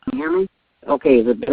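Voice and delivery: handset close, loud and boomy; phone off speaker. Real, not acted. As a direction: talk right into the handset. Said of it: "that's worse".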